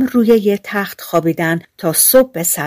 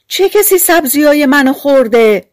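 dwarf voice; 7 semitones higher, 6 dB louder than usual. Acted. Fourth dwarf voiced in story.

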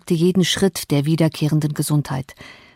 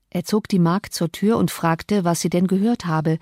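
ordinary delivery

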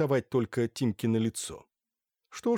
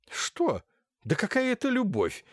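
angry hiss; 12 semitones higher than usual. A narrator's reading. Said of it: "злобно прошипела Ирина Лукинишна".

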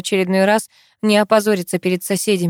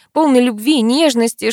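ordinary delivery

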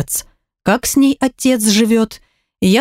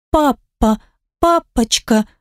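put-on higher, small child pleading to her mother; higher child's voice, hurt and small; little girl's voice; 4 semitones higher, slower than usual. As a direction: play a guilty little girl blaming herself. Daughter reaches for father.

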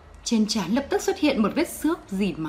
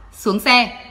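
cold bark; 4 dB louder than usual. Acted. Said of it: "Quân lạnh giọng quát".

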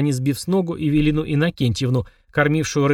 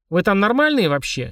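displeased; 5 semitones higher than usual. Acted. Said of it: "недовольно высунулась мама".

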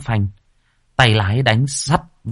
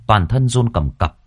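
ordinary delivery

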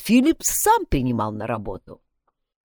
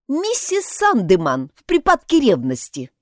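convinced; 8 semitones higher, 4 dB louder than usual. A narrator's reading. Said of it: "убеждённо ответила Мэри".

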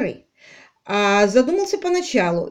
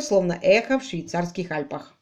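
usual speaking voice

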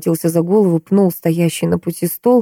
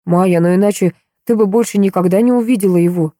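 usual speaking voice

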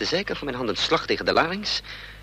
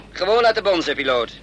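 raised voice, higher and louder, snapping at the pilot; forceful order; 4 semitones higher, 5 dB louder than usual. Acted. Hijacker to the pilot, ignoring the banging door: raised, forceful order. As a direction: bark it at the pilot over the noise.

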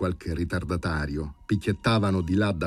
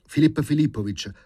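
warning tone; 4 semitones higher, 3 dB louder than usual. Acted. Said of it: "con fare ammonitore".

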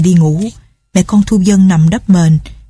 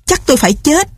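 despairing cry; 8 semitones higher than usual. A narrator's reading. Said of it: "kinh khủng la bài hải".

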